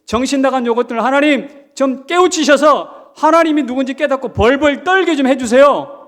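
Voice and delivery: loud, high imploring plea to God; pleading prayer. Acted. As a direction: cry out to God, begging. Preacher pleads loudly to God.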